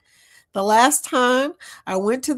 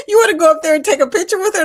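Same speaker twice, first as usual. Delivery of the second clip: quoting Jorge; 8 semitones higher, 8 dB louder, much faster than usual. Retold or imitated. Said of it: "Jorge goes".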